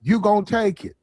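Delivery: mock street-tough impression; a singer. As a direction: imitate a singer laying down hard terms. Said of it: "That's how niggas talk".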